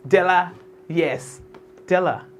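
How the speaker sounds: Della slow and smooth, DEL-la; pronounced with love. Shown as a demonstration. Host models Della, pronouncing it with love. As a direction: savour Della with a short first vowel. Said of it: "pronounce it with love".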